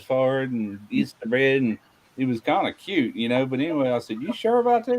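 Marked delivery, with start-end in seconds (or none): 4.2-5.0 doubtful question. Retold or imitated. Doubting his friend.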